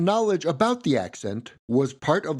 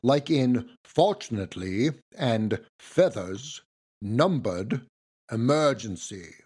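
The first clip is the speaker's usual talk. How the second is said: slow, lower R-less Southern drawl; Foghorn Leghorn accent; 4 semitones lower, slower than usual. Shown as a demonstration. Narrator demonstrating a cartoon rooster's words, R-less Southern accent. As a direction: say each word with R's softened into ahs. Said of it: "R's in his words turned into ahs".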